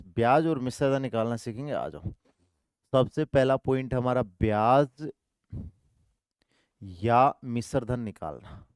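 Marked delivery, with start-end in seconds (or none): 4.2-8.6 drawn-out words for note-taking; slow dictation. Shown as a demonstration. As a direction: spell it out slowly for the class. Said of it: "slow dictation".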